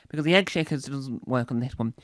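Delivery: normal talking voice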